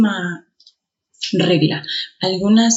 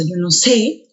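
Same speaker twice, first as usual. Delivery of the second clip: "sé" pronounced with more force; stress on SÉ; slower than usual. Shown as a demonstration. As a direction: lean firmly on the final "sé". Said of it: "se pronuncia con mayor fuerza".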